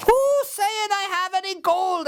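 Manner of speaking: high, cagey little voice; sly leprechaun. Acted. Leprechaun denies his gold to Seamus in a high sly voice. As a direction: play innocent, high and quick.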